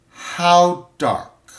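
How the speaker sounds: sharp, high and loud landlady's question; a curt landlady demanding an answer; blunt landlady. Acted. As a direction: bark it down the phone at him.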